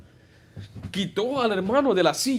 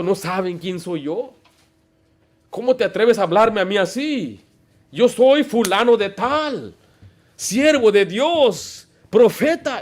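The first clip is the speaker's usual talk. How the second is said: slow, higher, self-important; proud offended preacher; 3 semitones higher, slower than usual. Retold or imitated. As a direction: draw out each title with wounded pride. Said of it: "se enojan por su mismo orgullo". (imitando a un predicador ofendido y orgulloso, lento y más agudo)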